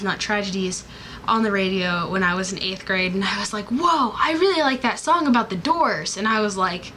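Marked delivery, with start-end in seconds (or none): 3.7-6.2 higher, swooping mock amazement; retold excited discovery. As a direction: act out being wowed by a song, pitched up. Acting out younger self's excitement.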